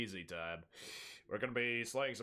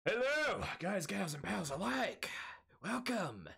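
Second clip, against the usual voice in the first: higher, sing-song mock host greeting; funny greeting voice; 7 semitones higher than usual. Streamer greets viewers in a higher, hammed-up host voice. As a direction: ham up a showy welcome to chat. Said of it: "Why am I talking like this?".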